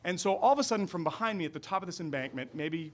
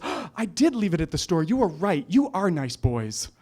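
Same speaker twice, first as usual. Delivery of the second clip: put-on Scottish accent; 4 semitones higher, 6 dB louder than usual. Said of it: "Again, with a Scottish accent".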